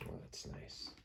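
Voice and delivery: soft whispered contentment; whispered relief. Acted. Smelly Bear enjoys the back scratch, whispered. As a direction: breathe it out, relieved.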